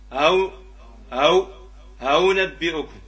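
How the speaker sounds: أو with second hamza softened toward a w; eased second hamza. Shown as a demonstration. Teacher modelling tashil with damma, أو with hamza near waw. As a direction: let the hamza in أو نبئكم slide halfway into waw. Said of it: "وشيء من الواو في حالة الضم".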